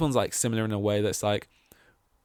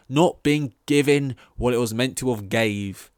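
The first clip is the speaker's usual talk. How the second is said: mock kids' slang; 2 semitones higher, 5 dB louder than usual. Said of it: "as the kids say".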